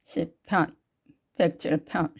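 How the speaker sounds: 살짝 낮춘 할머니 흉내; 할머니 목소리. Pretend. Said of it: "할머니 목소리로 한번 불러볼까요". (가볍게 흉내 낸 할머니 목소리)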